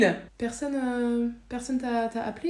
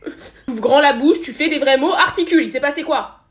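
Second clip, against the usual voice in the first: raised, insistent parent voice; exasperated urging; 3 semitones higher than usual. Acted. Parent to a crying, unintelligible child, exasperated urging. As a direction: press the child firmly to speak clearly.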